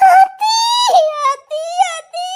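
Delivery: high-pitched cry of shock; panicked high wailing; alarmed wail. Acted. Cries out in alarm.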